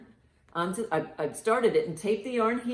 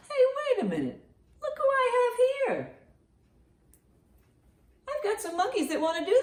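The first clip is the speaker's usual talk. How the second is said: much higher, playful puppet squeak. Acted. A puppet monkey greeting the kids, very high. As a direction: pop up like a cheeky puppet.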